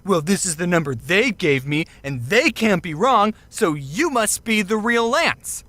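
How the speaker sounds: mildly mocking, deliberate stresses; condescending. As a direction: lean on THEY as if explaining to a fool. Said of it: "she sounded so condescending".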